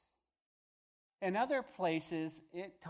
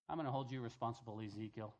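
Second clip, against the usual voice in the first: quick, soft and low aside to Ezekiel; God quietly charging the prophet; 7 semitones lower, 6 dB quieter, faster than usual. Acted. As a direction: say it gently, under your breath. God voiced speaking to Ezekiel.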